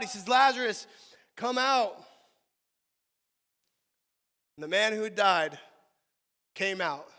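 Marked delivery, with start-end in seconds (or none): 0.3-2.1 full shout, much louder and higher; crying out loud. Acted. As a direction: call him out of the tomb. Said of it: "he cries out".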